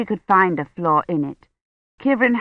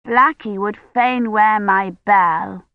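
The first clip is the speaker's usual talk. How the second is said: put-on slow, coaxing little-girl voice; wheedling child; 3 semitones higher, slower than usual. Agnes wheedles to put her bell on Blackie. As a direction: ask sweetly for a favour.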